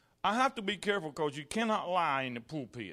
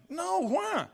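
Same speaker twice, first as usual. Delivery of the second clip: retold dismay; 10 semitones higher than usual. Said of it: "I jumped up and down".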